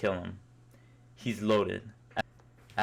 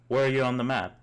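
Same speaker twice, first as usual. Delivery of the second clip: calling out; 3 semitones higher, 5 dB louder than usual. Acted. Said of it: "you call out to your teammates".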